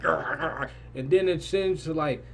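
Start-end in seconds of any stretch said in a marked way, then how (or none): 0.0-0.7 playful "grr, grr" growl noise; imitated body buzz. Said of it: "your body getting high, you like".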